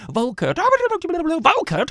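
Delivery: high, loud, slow nagging call; shrill wife. A narrator's reading. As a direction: whine the name like a nagging wife. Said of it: "his wife grew more and more shrill".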